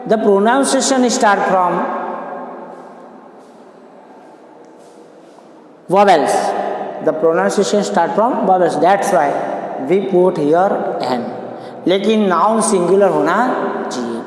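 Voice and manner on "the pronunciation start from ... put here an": slow dictation. Shown as a demonstration. Teacher dictating the rule.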